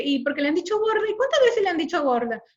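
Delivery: judgmental questioning. Retold or imitated. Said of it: "Así en ese tono".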